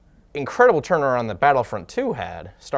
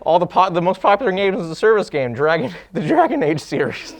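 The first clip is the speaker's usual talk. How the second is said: sarcastic; 6 semitones higher, 5 dB louder than usual. Acted. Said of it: "That was sarcasm".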